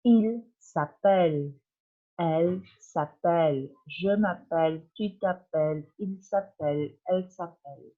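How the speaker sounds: teacher modelling "appelle" for the class; French demo. Shown as a demonstration. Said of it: "¿Vieron la diferencia?".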